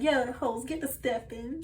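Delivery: a hint of a bossy spirit, half laughing; sassy spirit voice. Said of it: "I'm hearing this like".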